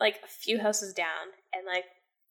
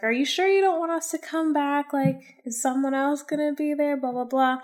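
higher-pitched mock-innocent questions; feigned innocence; 5 semitones higher than usual. Prankster calling the friend back, feigned innocence. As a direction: act the innocent caller, lightly put on. Retelling own prank phone call.

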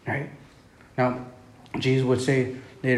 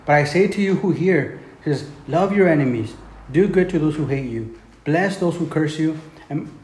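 scripture reading. Acted. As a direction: pronounce each command to the flock. Reads Jesus' teaching aloud.

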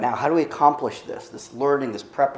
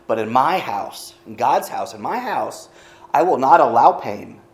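commanding voice of God, louder; 5 dB louder than usual. Acted. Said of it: "That's my God voice".

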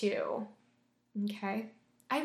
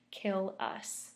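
eerie whisper; 3 dB quieter than usual. A narrator's reading.

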